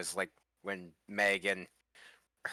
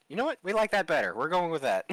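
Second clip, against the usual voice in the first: excited producers; 7 semitones higher, 5 dB louder, faster than usual. Retold or imitated. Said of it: "they were just like".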